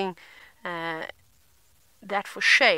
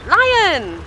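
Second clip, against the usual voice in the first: excited; 9 semitones higher, 8 dB louder than usual. Real, not acted. Spotting lion on drive.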